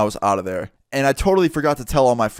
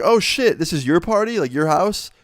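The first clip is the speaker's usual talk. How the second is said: retold surprise; 6 semitones higher than usual. Retold surprise at learning who hosts.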